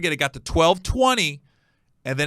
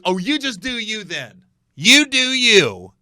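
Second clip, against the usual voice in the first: sarcastic brush-off; 5 semitones higher, 6 dB louder, slower than usual. Retold or imitated. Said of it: "He goes".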